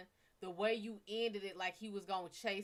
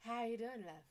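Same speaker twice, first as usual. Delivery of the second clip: put-on British accent; 3 semitones higher than usual. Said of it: "Don't let Loki come over".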